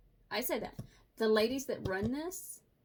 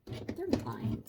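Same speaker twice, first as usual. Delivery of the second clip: deep mock voice; 11 semitones lower than usual. Low spoof voice.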